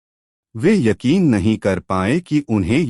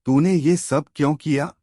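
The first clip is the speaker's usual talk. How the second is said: higher-pitched demanding why; a higher, accusing friend's voice; accusing question; 6 semitones higher than usual. Acted. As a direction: confront the boy, pitch up high. Friends confront the prankster boy.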